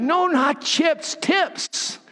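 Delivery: "tips" set apart, high-pitched; imitated child's correction. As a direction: correct "chips" with a high, stretched "No, not chips", then a separate "tips". Grandson corrects grandparents' mishearing.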